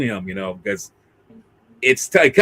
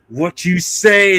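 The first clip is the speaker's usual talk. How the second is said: tough challenge; 3 semitones higher, 4 dB louder, slower than usual. Retold or imitated. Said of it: "Gabara gonna say".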